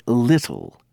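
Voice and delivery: little with a crisp t; British little. Shown as a demonstration. Teacher showing students the British t. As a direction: tap out both t's in little. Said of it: "a British person will say".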